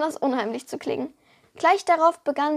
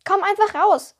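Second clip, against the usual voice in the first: a touch higher and louder, coaxing; lightly voiced girl; 5 semitones higher, 5 dB louder than usual. A narrator's reading. Girl coaxing the kobold out of the sand, higher and louder. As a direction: call him out of hiding. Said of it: "schlug Alea vor".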